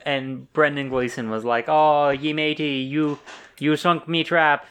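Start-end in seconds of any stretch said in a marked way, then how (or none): 1.7-4.7 mock Irish pirate accent. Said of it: "that's what he sounds like".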